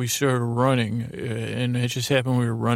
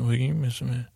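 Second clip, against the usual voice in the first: lightly garbled mumbled reply; Mumble Bear. Acted. Bear answers about Judy Garland, mumbling. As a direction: blur the words into a mumble. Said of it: "Mumble Bear said".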